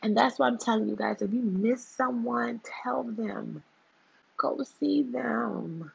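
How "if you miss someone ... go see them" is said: tender plea. Real, not acted. Vlogger urging viewers to visit those they miss. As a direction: urge them gently to reach out.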